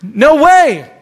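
defiant refusal. Pretend. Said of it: "You're gonna s-, or whatever".

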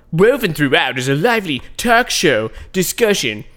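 lightly put-on teen promo voice; promo announcer voice. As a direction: read it like a cheesy video ad. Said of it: "not actually a California teenager voice".

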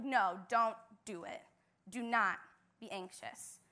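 firm command. Pretend. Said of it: "This is a strong command".

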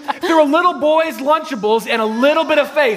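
high-pitched, building sermon delivery; rousing preacher in full flow; impassioned preaching. Real, not acted. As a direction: preach it up to the congregation. Preaches building examples at full force.

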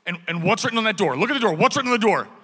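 loud exasperated demand; yelling. Retold or imitated. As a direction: shout at him, pointing at the door. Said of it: "yelling at each other".

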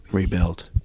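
the last rebuild breathed out as a whisper. Acted. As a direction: let the word fade into a whisper. Third rebuild dropped to whisper.

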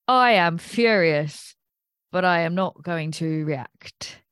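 slow, measured, each word placed with care; slow deliberate calm. Retold or imitated. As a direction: say it slowly, holding the anger back. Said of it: "of being able to say".

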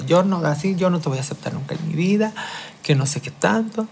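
imitating an angry mother laying down the law; furious mother. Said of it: "estaba fúrica ella, muy enojada".

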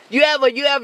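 ordinary talk, nothing marked

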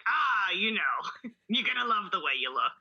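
put-on spin doctor patter; lightly voiced salesman, quick assurance. Shown as a demonstration. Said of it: "that's the voice that I use".

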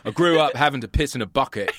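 amateur attempt at a Birmingham accent; Brummie accent. Quizmaster reading a memoir quote in an attempted Brummie accent. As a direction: have a shaky go at Brummie. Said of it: "gonna try this in a Brummie accent".

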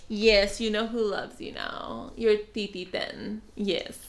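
soft, slow cooing to the pet; tender pet talk, softly. Real, not acted.

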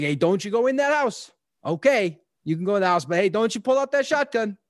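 lightly voiced scolding from the car; mock warning. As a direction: pitch climbing with each futile warning. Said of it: "sitting in the car, be like".

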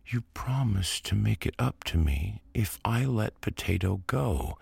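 put-on high, fast dismayed boy's pleading. A narrator's reading. Antoine protests to Pumpkin, high fast dismay. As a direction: rush the complaint, high and upset. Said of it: "cried Antoine in dismay".

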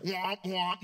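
slow "womp, womp" of anticlimax; mock failure sound effect; imitated sad womp-womp. Preacher mimicking an awkward meme, womp-womp. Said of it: "and it's like, womp".

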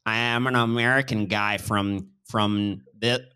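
imitating a broad caricature of an American accent; exaggerated American accent. Mimicking how Brits impersonate Americans, exaggerated American accent. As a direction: lay the American accent on thick. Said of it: "that's how we sound".

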